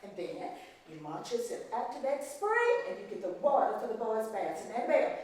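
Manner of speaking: a hint of a cold, scolding mistress; stern plantation mistress. Mistress scolding the maid over the broken vase, coldly.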